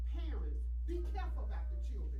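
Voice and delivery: loud, emphatic church testimony; preaching testimony. Real, not acted. Testifies to congregation at raised volume.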